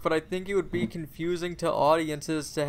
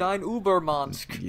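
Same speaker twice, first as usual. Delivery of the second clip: a slow, hammed-up mock German accent; slower than usual. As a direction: drag the words out in a jokey fake German accent. Jokey mock German for Nazi Superman.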